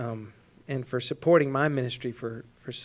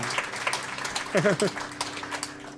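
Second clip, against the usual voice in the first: emotional breathy laugh; 2 semitones higher, 8 dB quieter than usual. Real, not acted. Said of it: "sorry to get a little emotional".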